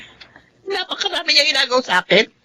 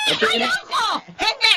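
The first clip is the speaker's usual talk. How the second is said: sharp refusal; 10 semitones higher, 6 dB quieter than usual. Acted. Refusing to share the bananas.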